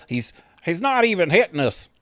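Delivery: a rider crying out as bullets fly; alarmed posse rider. Retold or imitated. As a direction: call it out mid-chase in disbelief. Posse rider shouting in the chase.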